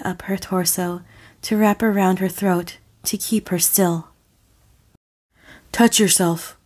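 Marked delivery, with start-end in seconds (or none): 5.7-6.6 commanding. Acted. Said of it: "he commanded".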